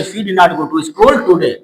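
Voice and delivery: slowly, word by word; slow dictation. Shown as a demonstration. Teacher reading the finished sentence to students, slowly. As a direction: read the full answer for copying. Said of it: "building the sentence".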